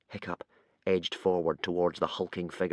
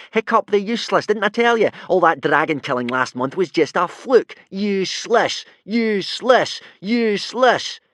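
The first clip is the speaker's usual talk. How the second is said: gleeful crowing; 10 semitones higher, 7 dB louder than usual. A narrator's reading. Bully crowing over Hiccup's defeat, gleeful. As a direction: crow over his failure. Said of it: "crowed Snotlout gleefully".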